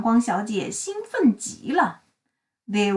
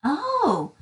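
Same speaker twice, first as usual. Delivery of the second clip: surprised oh; 5 semitones higher than usual. Acted. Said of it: "said little Miss Sunshine".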